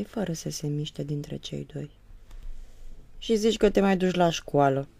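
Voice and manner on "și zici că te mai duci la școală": snapping, displeased. Acted. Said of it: "se răsti mama nemulțumit".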